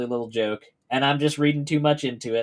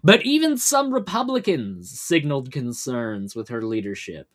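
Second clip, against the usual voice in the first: measured, emphatic news read; news article read-aloud. Real, not acted. Host reading a news story to stream viewers, news read-aloud. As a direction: read it out like a news report, landing key words.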